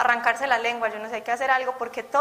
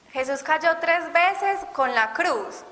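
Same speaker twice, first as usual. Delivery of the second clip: slow emphatic; 4 semitones higher, much slower than usual. Acted. Preacher stresses Christ's falls.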